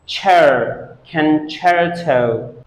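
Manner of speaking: "cher" alone, then CONCERTO slowly as ken-CHAIR-toh; syllable demonstration. Shown as a demonstration. Teacher shows how C E is pronounced, syllable demonstration. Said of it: "C E is pronounced".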